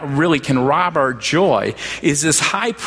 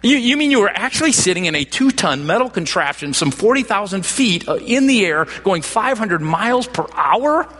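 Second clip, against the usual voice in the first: put-on 2 higher, astonished old man's disbelief; 3 gasp it out like he can't believe flying; 1 amazed great-grandfather; 5 semitones higher than usual. 4 great-great-grandfather hears about flight, higher amazed disbelief. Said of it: "His response is".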